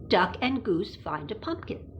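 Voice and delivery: the title said in a breathy whisper; hushed book title. Shown as a demonstration. Whispered title then read aloud.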